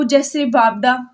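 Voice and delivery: वापडा said slowly as one whole word, not letter by letter. Shown as a demonstration. Teacher showing students an acronym read as a word. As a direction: draw out वापडा as a single word. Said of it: "जिनके spell नहीं pronounce होते".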